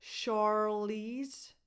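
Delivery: "Charlize" drawn out as shar-leez; rising "Charlize", SH at the start; SH first sound. Shown as a demonstration. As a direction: begin "Charlize" with sh, never ch. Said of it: "the first sound is a sh, not a ch".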